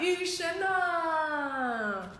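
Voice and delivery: long drawn-out high call to the heavens; calling to the sky. Acted. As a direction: stretch it out like summoning a god. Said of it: "对着天空大喊". (拉长声音向天空呼唤)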